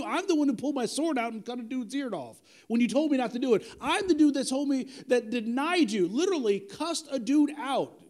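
lightly acted disbelief at being chosen; protesting Peter. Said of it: "I'm sure Peter's going".

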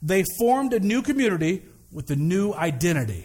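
speaking through a face mask; muffled mask voice; muffled behind a mask. Real, not acted. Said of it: "it's muffled behind the mask".

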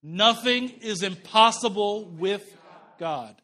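congregation call-and-response. Real, not acted. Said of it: "Everybody say that with me".

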